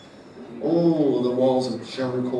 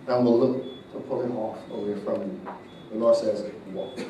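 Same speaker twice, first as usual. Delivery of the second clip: prophetic word; 2 semitones higher than usual. Acted. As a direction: speak as the mouthpiece of God, hushed and solemn.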